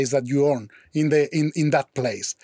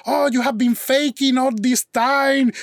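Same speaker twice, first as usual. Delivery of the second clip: put-on upset girlfriend; 6 semitones higher than usual. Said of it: "She was so upset with me".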